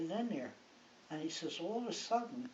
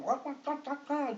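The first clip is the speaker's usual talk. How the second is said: imitated soldiers' jabber, slightly higher; mock foreign chatter; 6 semitones higher than usual. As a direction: gabble nonsense syllables like excited chatter. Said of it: "they're all talking".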